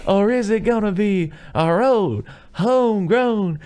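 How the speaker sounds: high, slow hammed-up announcer; mock contest announcer, drawn out. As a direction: boom it out like a festival MC. Announcer voice in retold film.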